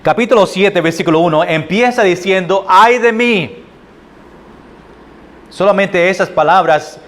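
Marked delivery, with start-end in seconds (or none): 2.7-3.6 higher-pitched cry of woe; lament. Acted. Preacher quoting Micah's first words, lamenting. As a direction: voice a prophet's lament, pitch lifted. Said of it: "está en lamento o lamenta de algo".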